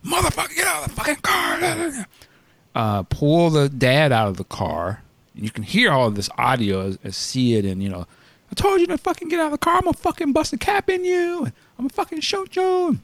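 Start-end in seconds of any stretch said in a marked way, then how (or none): 0.1-2.1 mock cop yell, pitched much higher; imitating a screaming cop. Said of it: "you know, screaming". 8.5-13.0 fast, much higher mock yell of a furious cop; mock cop threat. Quoting the cop's threats.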